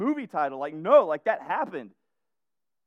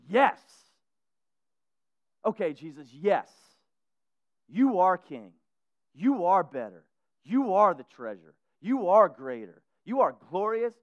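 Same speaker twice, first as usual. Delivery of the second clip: loud, ringing worship declarations; preacher voicing a believer who finally sees, in loud praise; fervent praise; 3 semitones higher, 6 dB louder than usual. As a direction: proclaim each line like a shout of praise. Imagined believer praising Jesus.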